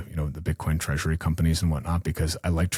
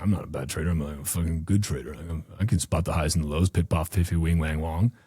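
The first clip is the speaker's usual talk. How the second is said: mock cocky trader; 2 semitones lower than usual. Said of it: "you're like".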